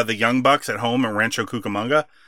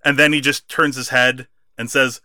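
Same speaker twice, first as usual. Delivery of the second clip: ordinary talk, nothing marked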